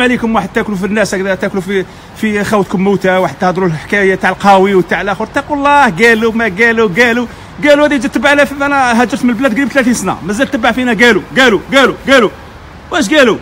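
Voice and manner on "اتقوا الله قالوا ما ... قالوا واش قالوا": rising agitated rebuke, shouting the repeated قالوا; heated outburst. Real, not acted. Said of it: "واسمحوا لنا على الانفعال". (توبيخ منفعل وصاخب)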